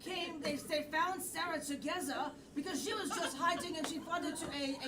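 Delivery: put-on French accent; French film. Improviser explaining how they found hiding Sarah, in a French accent. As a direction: narrate with a stage French accent. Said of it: "French film".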